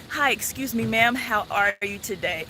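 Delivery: polite greeting. Shown as a demonstration. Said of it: "addressed properly".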